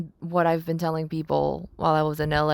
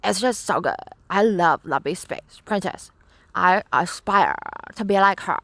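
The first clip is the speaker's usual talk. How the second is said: gushing cartoon princess voice; Lumpy Space Princess voice. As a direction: swoon like a spoiled princess. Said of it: "I might just keep on doing this".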